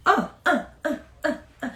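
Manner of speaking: happy dance grunts. Real, not acted. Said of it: "That's my happy dance".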